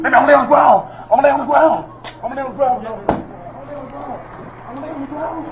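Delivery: frightened pleading that grows faint; terrified, the voice sinking to almost nothing; real fear fading into weak gasps; real panic. Real, not acted. Man pinned, fearing he will suffocate.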